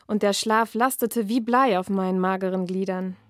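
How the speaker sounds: measured reading-aloud voice; dark fairy-tale narration; story reading. A narrator's reading. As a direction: read the passage like an author at a reading. Author reads her novel aloud.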